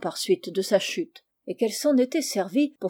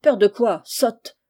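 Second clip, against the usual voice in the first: angry master; 6 dB louder than usual. Acted. Maître échaudé rudoie la servante.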